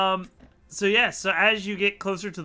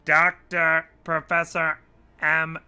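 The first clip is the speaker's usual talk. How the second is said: robot voice; slower than usual. Acted. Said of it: "and he's like".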